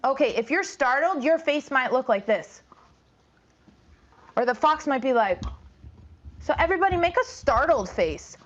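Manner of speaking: put-on lively read-aloud for young kids; storytime narration. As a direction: tell it to a class, lively.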